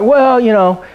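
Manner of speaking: dad boasting about Gracie; proud old dad. Retold or imitated. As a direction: savour "queen" like a proud old man. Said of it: "he's like".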